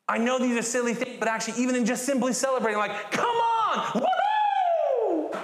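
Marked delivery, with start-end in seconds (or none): 3.1-5.4 very high, loud whoop; high loud joyful whoop; wild woohoo. Shown as a demonstration. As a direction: let the cheer fly. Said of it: "demonstrating celebration".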